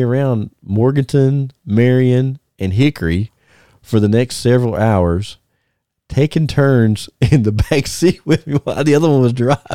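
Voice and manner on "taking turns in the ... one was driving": higher-pitched, breaking into laughter; real laughing. Real, not acted. Wrestler telling his host a wild story, laughing through it. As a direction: crack up while getting the words out.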